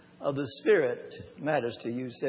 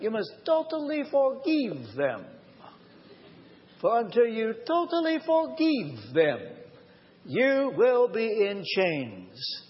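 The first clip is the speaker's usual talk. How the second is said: put-on higher, slow Romanian-accented advice from an old friend; 4 semitones higher than usual. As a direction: imitate a Romanian friend's accent, pleading and firm. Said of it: "in his Romanian accent".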